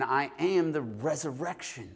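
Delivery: "resurrection" stretched out slowly and weighted; slow down and press on "resurrection"; stress on RESURRECTION. Shown as a demonstration. Preacher emphasizing the word resurrection, slow stress on "resurrection". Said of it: "the word resurrection".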